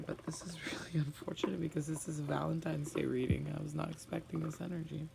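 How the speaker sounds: soft whisper with a small laugh; half-laughing whisper, dismayed; rueful whisper. Real, not acted. Upset over a Valentine's reading.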